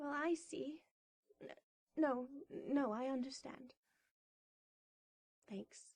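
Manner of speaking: hushed voice breaking with tears, very quiet. Character politely accepting an answer before being asked if crying: crying. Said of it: "Are are you crying?".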